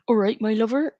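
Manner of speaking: brief mock regional English accent. Shown as a demonstration. Streamer showing the one English accent they know, regional English accent. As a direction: toss out a stock English dialect greeting in accent. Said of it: "between English accents, other than".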